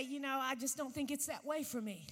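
doubtful listener. Retold or imitated. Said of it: "You say".

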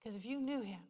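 soft retold pleading with pauses; gentle earnest counsel. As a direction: tell it quietly and tenderly. Earnest retold counsel to crying woman.

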